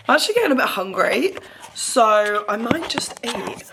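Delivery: breathy half-whisper. Real, not acted. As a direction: drop to a whisper. Hungry aside.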